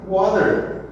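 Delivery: water said wader, the T like a D; American water. Shown as a demonstration. Teacher shows the American water, T turned to D. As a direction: flap the T in water into a D. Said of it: "ele vai engolir esse T ... parecido com um D".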